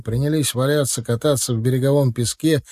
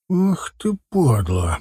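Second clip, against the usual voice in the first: hissed insult; 2 semitones higher, much slower than usual. A narrator's reading. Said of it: "прошипел Мятый".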